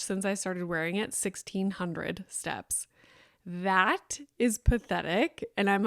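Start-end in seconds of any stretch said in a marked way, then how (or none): 1.1-2.9 whispered aside. Real, not acted. Muttering a low step count.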